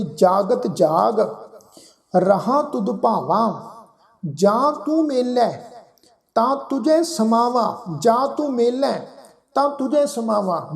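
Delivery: slow scripture recitation, nasal ਜਾਂ and ਤਾਂ; nasalised vowels. Shown as a demonstration. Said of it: "ਇੱਥੇ ਵੀ ਜਾਂ ਬਿੰਦੀ ਸਹਿਤ ਨਾਸਕ ਉਚਾਰਨ".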